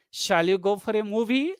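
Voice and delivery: suggestion rising on "movie". Shown as a demonstration. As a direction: lift MOVIE at the end, suggesting. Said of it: "the rising tone".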